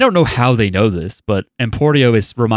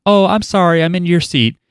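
put-on high, sweet, polite little boy; wholesome 1950s kid; 8 semitones higher than usual. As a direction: play an innocent well-mannered kid. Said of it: "the kid with the wooden legs is like".

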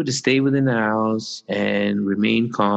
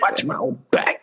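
whispering; 3 semitones higher than usual. Pretend. Recording from a closet, hiding.

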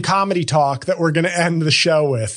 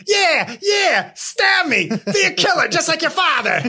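much higher, put-on Godfather movie voice; Godfather impression; 11 semitones higher than usual. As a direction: ham up the mafia film line with a laugh. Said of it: "It's The Godfather, folks".

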